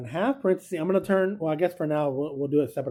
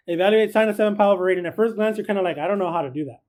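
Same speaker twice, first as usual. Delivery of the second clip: fast reread; 2 semitones higher, faster than usual. Shown as a demonstration. Teacher rushing through the problem again for the class, fast. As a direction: rattle the problem off quickly.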